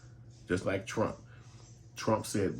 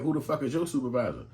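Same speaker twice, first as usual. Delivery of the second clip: mock angry demand; 7 semitones higher, 5 dB louder than usual. Angry caller demanding supervisor.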